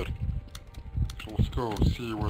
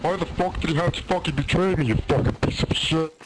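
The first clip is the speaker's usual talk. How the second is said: furious tirade; 3 semitones higher than usual. Real, not acted.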